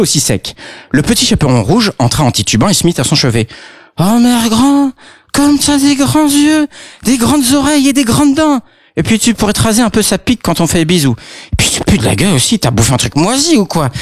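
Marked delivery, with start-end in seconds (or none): 4.0-13.9 put-on girl voice. Girl at granny's bedside, high cheeky voice. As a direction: sing it out like a tipsy kid.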